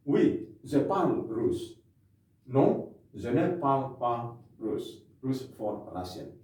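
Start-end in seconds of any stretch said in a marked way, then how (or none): 0.1-1.7 slow model answer. Shown as a demonstration. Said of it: "Parlez-vous russe?". 2.5-5.0 slow model answer. Shown as a demonstration. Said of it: "Parlez-vous russe?".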